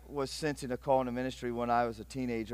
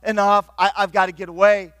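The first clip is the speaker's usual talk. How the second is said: loud, higher, fed-up cry of quitting; frustrated outburst; 4 semitones higher, 8 dB louder than usual. Acted. Peter shouting that he's quitting, fed up. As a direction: throw up your hands and shout you're done.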